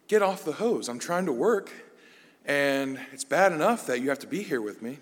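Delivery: mock-exasperated mom telling child off; imitating annoyed mom. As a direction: scold the kid like an exasperated mother. Mom scolding child at hose.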